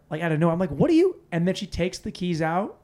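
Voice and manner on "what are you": very high, loud protest; incredulous acted question; retold bafflement. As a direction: shoot up in mock disbelief.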